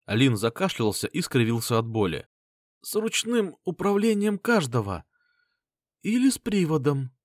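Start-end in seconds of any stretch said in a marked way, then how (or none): 2.8-7.1 an injured inventor rambling through pain; wounded Lin. A narrator's reading. Wounded Lin voiced by narrator.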